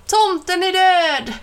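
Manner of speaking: high, loud gloating cry; mock shout. A narrator's reading. Mike shows how he'll shout on Ben's back, loud gloating cry. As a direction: crow it like a victory chant.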